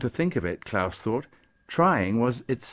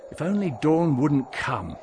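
a touch of longing; wishful; 3 semitones higher, 4 dB louder than usual. Acted. Klaus wishes as the morning light nears, wishful. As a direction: wish it earnestly, voice slightly lifted. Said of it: "Klaus wished".

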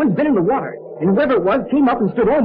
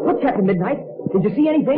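excited. Acted. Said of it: "he says excitedly".

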